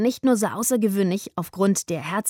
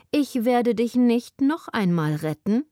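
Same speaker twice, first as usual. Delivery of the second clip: lazy cat; 4 semitones higher than usual. Acted. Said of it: "sagte sie gedehnt".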